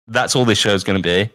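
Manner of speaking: usual speaking voice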